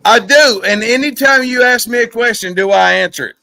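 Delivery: loud slurred retort. Real, not acted. Drunken loud retort to friend.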